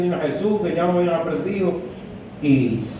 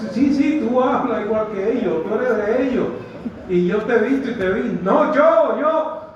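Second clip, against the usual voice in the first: 1 mock accusation; 5 semitones higher than usual. Acted accusation and denial.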